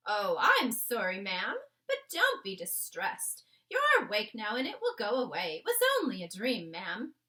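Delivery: calm a frightened mistress gently; oldish maid soothing. Acted. The maid reassures the Queen after her nightmare, soothing. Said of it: "the voice of an oldish person".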